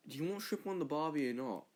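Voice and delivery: put-on Australian accent. Australian offering shrimp on the barbie, put-on Australian accent. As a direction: ask it like a caricature Australian. Comic Australian impression begins.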